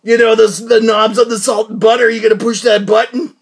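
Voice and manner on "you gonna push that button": mock shouting. Mock interrogating himself, shouting.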